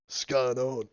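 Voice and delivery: brooding Aussie hunter entering a bar; deep Australian Witcher voice. Pretend. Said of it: "in his deep Australian Witcher voice".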